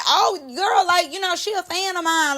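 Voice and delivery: high, chatty imitation of girl talk; mock casual chumminess. Host mimics how she did not say it, high and chatty. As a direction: lift it high, like lightly gushing to a friend. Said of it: "not saying it like".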